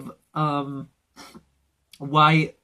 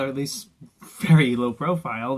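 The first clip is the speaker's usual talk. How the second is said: usual speaking voice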